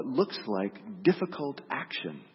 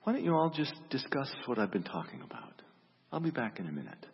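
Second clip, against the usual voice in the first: lightly voiced calm speaker, unhurried; a touch of easy reassurance; 2 semitones higher than usual. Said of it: "very calmly said".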